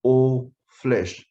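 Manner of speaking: "all flesh" said slowly, each word weighted; stress on all flesh. Shown as a demonstration. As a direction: lean on "all flesh" to emphasize it. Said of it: "I want to emphasize the word here".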